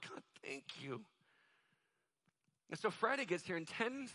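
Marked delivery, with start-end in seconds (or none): 0.1-1.1 soft, lowered private prayer; quiet thanks. Retold or imitated. Preacher moved by the boy's honest prayer, quietly thankful. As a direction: breathe out grateful thanks under your breath. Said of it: "I just sat there going".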